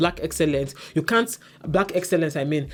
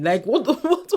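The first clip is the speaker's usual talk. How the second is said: exasperated disbelief; 10 semitones higher than usual. Real, not acted.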